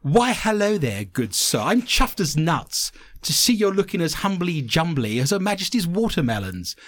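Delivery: lightly hammed-up English toff accent; best English accent. Shown as a demonstration. Host reads listener's nonsense sentence for Americans, best English accent. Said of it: "I should do my best English accent".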